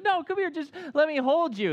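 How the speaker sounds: high, loud mock pleading; retold tearful pleading. Crying dad to the son he hurt, retold pleading. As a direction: imitate a dad begging, high and upset. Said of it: "so now I'm crying".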